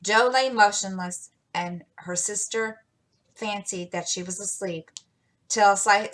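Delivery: usual speaking voice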